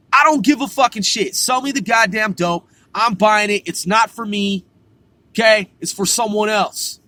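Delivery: imitating an addict mom's fed-up yell; angry demanding mom. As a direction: push back hard, she won't take no. Mom yelling to buy dope.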